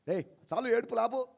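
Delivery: mild mock snapping; irritated scolding. Annoyed passer-by to a beggar, mildly snapping. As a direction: cut the beggar off with acted impatience. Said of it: "అని కసురుకోమా".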